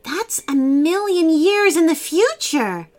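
put-on high-pitched girl's disbelief; shocked cry. A narrator's reading. Harper learns the year, high shocked cry. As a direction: exclaim it high in astonishment. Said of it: "Harper cried".

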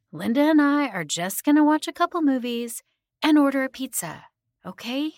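overdone reassurance to a fussing aunt; cutting her off, forced cheer. A narrator's reading. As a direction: insist it's fine through a forced smile. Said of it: "I cut her off with a forced smile".

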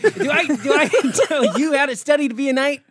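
mean puppet. Acted. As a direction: put down the heckler as a nasty puppet. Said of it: "puppets that are mean to him".

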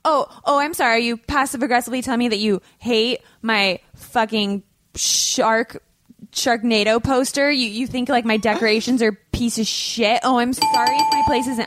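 indignant, hammed-up offence; intense mock rant. Host defending the Sharknado poster, mock-indignant rant. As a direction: play wounded pride with sarcastic apologies. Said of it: "That was intense".

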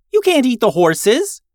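high, loud panicked shout; yelling. Acted. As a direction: yell to stop her. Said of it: "yelled June".

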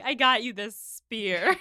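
slow, laughing through a silly quote; laughing mock quote. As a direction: giggle out the line as if presenting a gift. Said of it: "She's like".

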